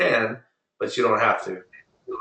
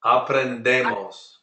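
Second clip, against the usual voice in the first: slow model. Shown as a demonstration. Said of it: "Aprender becomes aprendemos".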